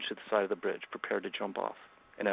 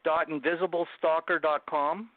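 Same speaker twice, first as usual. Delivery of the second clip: slow, careful web address; spelled out slowly; 6 semitones higher, slower than usual. Shown as a demonstration. Giving the host his book site, slow and deliberate. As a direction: spell it out so listeners can write it. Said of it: "Can you please share the places?".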